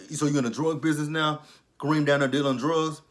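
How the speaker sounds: quick, pushy mock accusation; retold nasty accusation. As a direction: imitate him being rude to her. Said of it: "he's just been a complete asshole to her".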